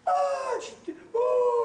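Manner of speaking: high loud cry of release; retold cry. Healed woman crying out, mock wail. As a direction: cry out as she is freed. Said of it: "She went".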